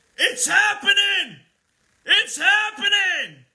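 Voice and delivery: loud, high, full-force military-style shout. Recounting a man flexing his muscles and shouting, retelling a loud shout. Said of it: "That loud, with the Marine Corps".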